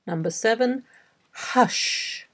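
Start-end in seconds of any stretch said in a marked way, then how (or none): 1.3-2.3 careful, isolated word, pitched higher; slow dictation. Shown as a demonstration. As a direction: dictate the single word slowly. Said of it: "read ten words aloud slowly".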